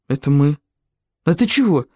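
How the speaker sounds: as composed as possible; deliberately calm. A narrator's reading. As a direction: answer evenly, hiding the scare. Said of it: "как можно спокойнее".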